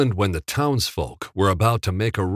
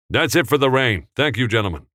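calling out; 5 semitones higher, 3 dB louder, faster than usual. Acted. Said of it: "Capra called".

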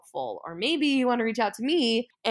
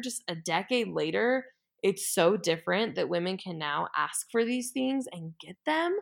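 earnest challenge; 3 semitones higher than usual. Retold or imitated. Retold pleading challenge to a coworker.

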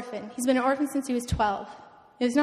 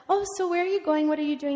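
higher, animated quoted pastor; lilting impression of a South African pastor; funny pastor's voice; 4 semitones higher, faster than usual. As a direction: imitate a funny, curious pastor. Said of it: "he talks like this".

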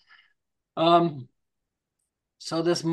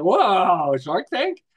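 impressed; 5 dB louder, much slower than usual. Retold or imitated. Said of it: "It's like".

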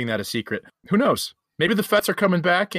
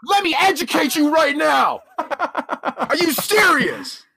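laughing; 11 semitones higher, 3 dB louder, slower than usual. Real, not acted. Laughing in disbelief at friend.

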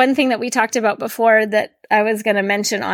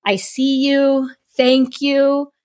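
tender greeting; 3 semitones higher than usual. Retold or imitated. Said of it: "I will greet my body and say".

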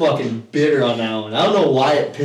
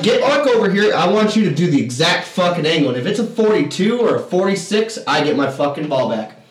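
louder, higher start, settling down; retold irritation; 4 semitones higher, 4 dB louder than usual. Player sets terms for opponents, irritated. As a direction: lay down terms, riled. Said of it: "really getting irritated".

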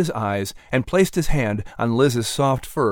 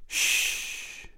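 whispered shh; soft shush; 11 dB quieter than usual. A narrator's reading. Mother hushing her crying son, whispered. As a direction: hush him gently. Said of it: "Sarah said softly".

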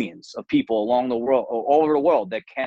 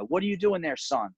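priest; 5 semitones higher, 4 dB quieter than usual. Retold or imitated. Priest voiced in parable.

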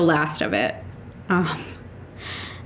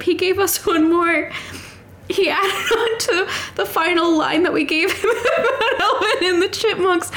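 high, tearful voice breaking with emotion; talking through real tears, pitch way up; crying; 9 semitones higher than usual. Real, not acted. Vlogger choking up over the cast's last line, tearful. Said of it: "I'm crying".

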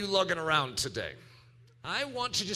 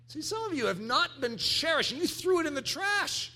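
fervent preaching; 10 semitones higher than usual. Real, not acted. Preaching exhortation.

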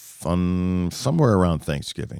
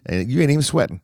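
imitating the caddy, higher and louder; teasing caddy; 10 semitones higher, 3 dB louder than usual. Old caddy ribbing the young golfer in the heat, higher and louder.

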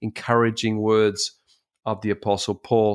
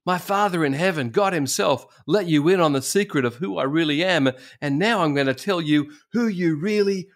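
lightly acted Jesus, higher-pitched and heartening; encouraging Jesus; 6 semitones higher than usual. Jesus telling Peter who he really is, encouraging, higher voice. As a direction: voice Jesus lifting up a disciple, pitched up. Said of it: "This is our Jesus. This is how he speaks".

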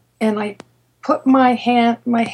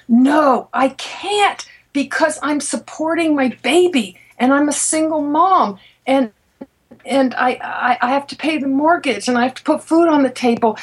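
desperate protest; 4 semitones higher than usual. Retold or imitated. Desperate refusal to quit job.

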